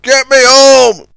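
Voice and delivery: loud, slow high demand; angry demand. A narrator's reading. Scuttlebutt demanding to be towed home. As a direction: insist hard.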